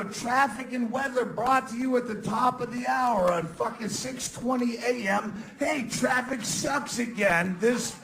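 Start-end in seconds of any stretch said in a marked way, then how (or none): 0.0-5.3 radio announcer parody. Retold or imitated. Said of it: "associate it with something else".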